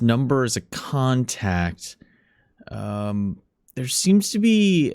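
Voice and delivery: lightly voiced nervous clerk; hesitant, apologetic phone call; apologetic morgue clerk.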